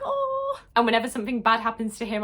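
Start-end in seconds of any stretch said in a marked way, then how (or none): 0.0-0.6 soaring pitiful "Oh"; a high, aching little sigh of sympathy; high sympathetic oh. Retold or imitated. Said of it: "I'm like".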